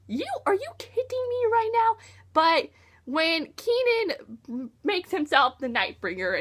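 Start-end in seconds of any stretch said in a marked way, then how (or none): 0.1-2.0 higher, exasperated disbelief; mock outrage. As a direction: throw up your hands in disbelief. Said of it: "and I was like".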